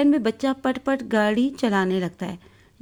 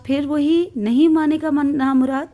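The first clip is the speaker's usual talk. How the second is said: scolding; 4 semitones higher, 4 dB louder than usual. Acted. Mother scolding noisy child.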